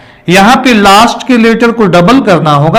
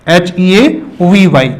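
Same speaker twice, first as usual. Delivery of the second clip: slow, letter-by-letter spelling; spelled out letter by letter; slower than usual. Shown as a demonstration. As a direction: spell each letter out slowly, like a teacher. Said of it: "word आपका है हैवी".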